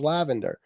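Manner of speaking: "lavender" said as la-VAN-der; wife's pronunciation. Retold or imitated. Host quoting rival's excuse about his wife, mispronouncing "lavender". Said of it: "That's how my wife pronounces".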